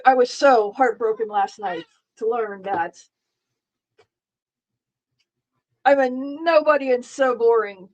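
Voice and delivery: dry mock heartbreak; sarcastic, pretending to be hurt. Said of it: "there's extreme sarcasm".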